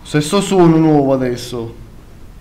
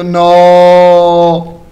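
being chased; 6 dB louder than usual. Real, not acted.

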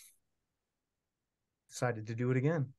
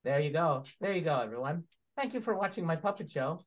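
puppet voice. Acted. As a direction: play the puppet Steve telling a knock-knock joke. Puppet show, Steve puppet character.

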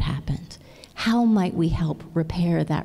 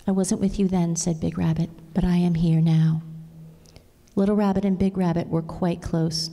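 put-on gentle storybook reading to a child; tender storybook voice for a child; reading a story aloud. Reads a picture book aloud.

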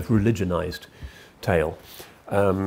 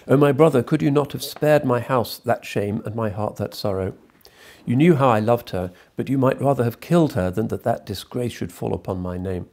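anguished reproach; 4 semitones higher, 6 dB louder than usual. Acted.

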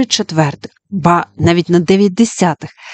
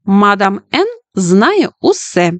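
mock fortune-teller; 2 semitones higher, slower than usual. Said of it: "відповіла Джуді".

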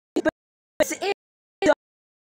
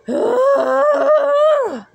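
exasperated cry; 11 semitones higher, 6 dB louder than usual. Acted. Outburst during the quarrel.

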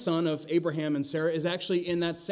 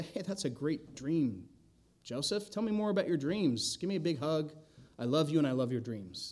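mock brotherly gushing; 4 dB quieter than usual. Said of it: "Did they say".

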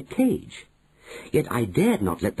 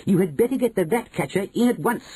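higher, pressing threat; grandmother threatening; 10 semitones higher than usual. A narrator's reading. Grandmother to manager, a higher pressing threat. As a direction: push him with a higher voice.

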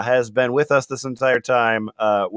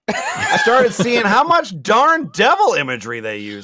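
Latina mom voice; 8 semitones higher than usual. Acted. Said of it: "more Latina, uh, Republican mom".

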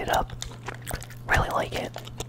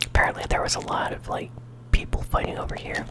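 ASMR whisper. Real, not acted. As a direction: whisper close to the mic. ASMR gaming whisper throughout.

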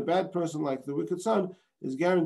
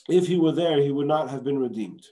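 "there" pushed out louder; stress on there; 2 semitones lower, 4 dB louder than usual. Shown as a demonstration. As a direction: lean on the word "there". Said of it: "the emphasis is on the word there".

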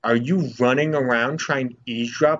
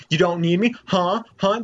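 more indignant; 7 semitones higher than usual. Real, not acted. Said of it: "Oh, oh, really?".

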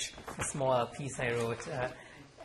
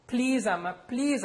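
louder, higher tearful begging; pleading through sobs; 11 semitones higher, 6 dB louder, slower than usual. Acted. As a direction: beg through mild mock sobs. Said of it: "I said through my sobs".

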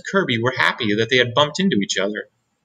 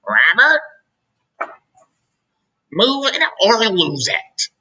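high, loud, stern command; a teacher ordering a slow pupil to hurry, high and stern; stern teacher call; 8 semitones higher, 3 dB louder, slower than usual. A narrator's reading. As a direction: bark it at the pupil like a strict teacher. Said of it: "Miss Kirby stomped".

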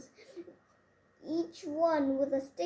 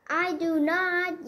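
loud, slow, word-by-word denial; wife yells back at her husband; yelling; 4 semitones higher, 6 dB louder, slower than usual. A narrator's reading. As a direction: stamp each word out. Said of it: "yelled Bonnie".

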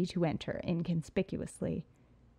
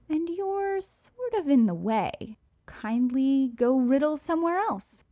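haughty dismissal; 7 semitones higher, 4 dB louder than usual. A narrator's reading. Burglar dismisses the Riddler.

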